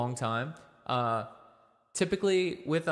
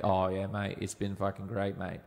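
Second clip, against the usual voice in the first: put-on Australian accent; 3 semitones lower than usual. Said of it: "typically Australians talk like this".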